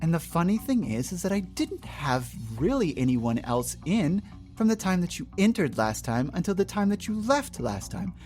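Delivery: overly polite shop clerk voice; fake-sweet service with a smile; customer service voice. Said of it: "let me put on my customer service voice".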